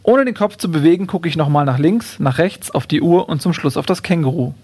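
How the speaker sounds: measured, clearly phrased book reading; reading a comic story aloud; story narration. A narrator's reading. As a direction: read the chapter aloud with deliberate pauses. Reads first chapter aloud.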